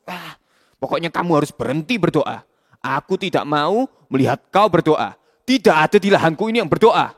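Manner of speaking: sneer, then threaten harshly; scornful boss. Acted. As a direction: boss mocks the Holy Spirit, then threatens Kaf.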